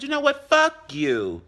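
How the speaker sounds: high-pitched wind-up, then punched curse; retold angry insult. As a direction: act out a defiant parting shot. Acting out a parting insult.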